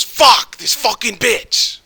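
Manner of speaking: mock your friend's furious cursing, slow and high; pissed-off rant. Bar-goer fuming to his friend about a girl, pissed off. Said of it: "he gets fucking pissed".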